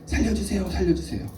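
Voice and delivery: high, urgent repeated plea; acted cry for help. Pastor voicing someone who fell in the water, urgent cry. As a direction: call out as if drowning, without full volume. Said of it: "누가 빠져서 소리를 지르고 있습니다".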